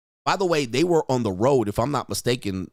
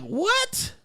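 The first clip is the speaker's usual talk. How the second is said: high squeaky disbelieving what; a hammed-up jolt of surprise; mock shocked what. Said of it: "he's like".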